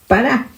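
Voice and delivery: "para" stressed on the final A, pa-RA; "para" with the accent on the final A; Hebrew word said carefully. Shown as a demonstration. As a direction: say "para" leaning on the last syllable. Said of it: "con tilde en la A".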